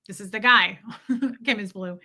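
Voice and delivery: ordinary talk, nothing marked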